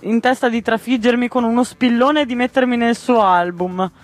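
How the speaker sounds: put-on high panicked child voice; frightened boy. Boy fleeing a butterfly, high panicked voice. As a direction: gabble it out like a scared little boy.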